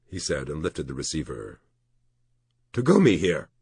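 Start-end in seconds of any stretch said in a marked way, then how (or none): 2.7-3.5 slightly squeaked phone greeting, higher and louder; squeaky. A narrator's reading. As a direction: answer the phone with a mild nervous squeak. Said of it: "His voice squeaked".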